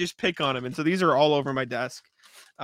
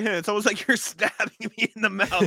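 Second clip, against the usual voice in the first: laughing sarcastic retort; 3 semitones higher, 3 dB louder than usual. Retold or imitated.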